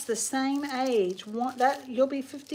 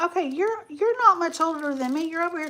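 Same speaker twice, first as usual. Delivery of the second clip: surprised; 5 semitones higher, 5 dB louder than usual. Real, not acted. Learns viewer is nearly her age.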